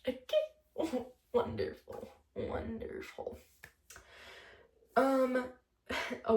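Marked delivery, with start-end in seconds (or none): 0.1-1.0 sarcastic okay. Real, not acted. Sarcastic reaction after laughing. 1.3-3.4 sarcastic wonderful. Real, not acted. Sarcastic comment on her own sadness.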